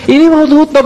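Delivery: annoyed shopkeeper shooing away a beggar; irritated snap. Retold or imitated. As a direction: bark it out, fed up.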